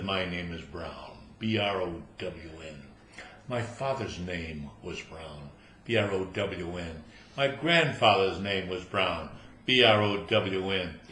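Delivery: low, slow, haughty spelling out; snobbish. Acted. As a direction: look down your nose at him. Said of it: "looks down his nose at him".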